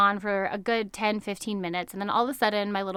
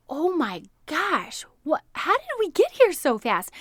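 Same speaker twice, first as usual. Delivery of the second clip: son's amazed cry, much higher and louder; amazed little boy; 7 semitones higher, 3 dB louder than usual. Retold or imitated. Amazed son sees the shore.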